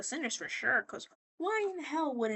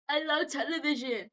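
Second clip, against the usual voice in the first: high, lightly voiced showman; imitated TV host; 4 semitones higher than usual. TV guy greets the room, high imitated enthusiasm. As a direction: imitate an excitable TV character, milder screech. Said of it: "And then Box is like".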